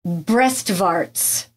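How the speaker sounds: German accent, said low. Shown as a demonstration. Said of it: "That was my really good German accent".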